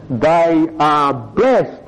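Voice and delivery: slow, drawn-out, earnest assurance; sincere. Real, not acted. Preacher assures the congregation he means it, sincerely. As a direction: say it very slowly and sincerely. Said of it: "I mean it sincerely".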